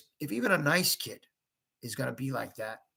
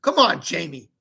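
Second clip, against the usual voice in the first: sharp, louder reproach; angry; 6 dB louder than usual. Acted. Mom angrily rebuking her young son. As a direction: snap it at him. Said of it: "said Mom angrily".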